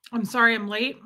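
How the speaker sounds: talking with mouth full; words around a bite of food; chewing noisily. Real, not acted. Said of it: "I'm sorry I'm chewing food".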